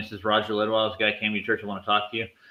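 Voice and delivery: ordinary delivery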